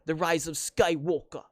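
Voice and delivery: lightly faked British accent on the title; terrible British accent. Fan mocking the film's title, terrible British accent. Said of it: "That's probably a terrible accent".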